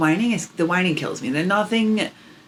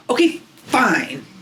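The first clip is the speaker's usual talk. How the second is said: higher, slow pouty "Okay, fine."; imitating sulky daughter; 6 semitones higher, slower than usual. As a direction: play a toddler crossing her arms, sulking. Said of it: "she does it like this".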